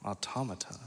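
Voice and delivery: "Automata" said as ah-TAH-muh-tuh, stress on second syllable; "Automata" with a clear T and an ah vowel first, ah-TAH-muh-tuh; corrected pronunciation. Shown as a demonstration. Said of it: "they pronounced that wrong".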